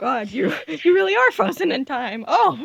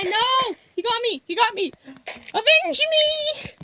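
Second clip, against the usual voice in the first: overacted death scene; 2 semitones higher than usual. Game character dies dramatically.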